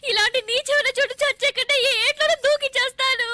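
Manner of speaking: mock-tragic crying threat; హాస్యంగా ఏడుస్తూ; tearful. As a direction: sob through the threat. Wife threatening to drown herself.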